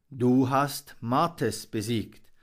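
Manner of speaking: slow, lightly voiced proud old raven. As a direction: say it slowly with pride. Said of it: "Seine Stimme klang stolz und glücklich".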